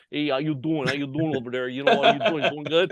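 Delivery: lightly put-on New Jersey mobster accent; touch of Jersey wise-guy accent; Sopranos-style East Coast accent. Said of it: "pretend to be like one of the guys".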